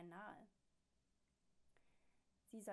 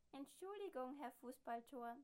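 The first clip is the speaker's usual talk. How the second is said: higher, louder cheeky machine apology; 5 semitones higher, 6 dB louder than usual. A narrator's reading. Talking machine teasing the neighbour, high and loud. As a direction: chirp the wrong name out brightly. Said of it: "sagt die Sprechmaschine".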